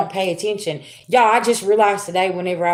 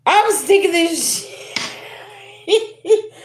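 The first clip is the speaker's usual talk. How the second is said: higher, slower, laughing complaint; mock fed-up, half laughing; amused exasperation; 8 semitones higher, much slower than usual. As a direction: drag it out like you're fed up but amused. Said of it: "I'm like".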